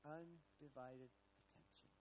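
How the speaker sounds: slow and deliberate; Undivided attention spoken slowly; slow emphasis. Shown as a demonstration. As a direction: lean on each word slowly.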